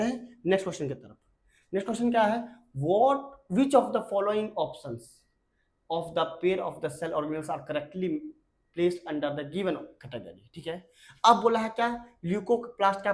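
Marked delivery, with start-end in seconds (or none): 2.8-10.5 slow, deliberate read of an English exam question. Acted. Teacher reads the worksheet question to students slowly. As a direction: dictate the question word by word.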